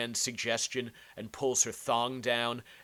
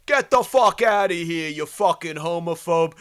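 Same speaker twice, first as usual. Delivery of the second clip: loud, higher shouted insult like a tough guy; yelling Jersey guy; 6 semitones higher, 10 dB louder than usual. Retold or imitated. Mocking a Jersey guy yelling at a protester, loud and high. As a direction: yell it across the street, Jersey tough guy. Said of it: "where you hear the person yell".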